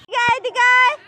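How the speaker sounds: high, loud call to come here; calling the goat back, loud and high. Real, not acted.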